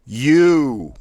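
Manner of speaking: "U" shouted high and loud, all air out; sharp thrust of U. Shown as a demonstration. Diaphragm exercise, coach blasting out U sharply. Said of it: "thrust out quickly and sharply".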